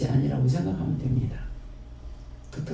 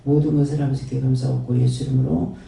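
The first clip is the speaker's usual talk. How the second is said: earnest, steady prayer voice addressed to the Father; closing prayer. Acted. Pastor closing the sermon in prayer to the Father, reverent prayer. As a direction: pray it reverently and evenly.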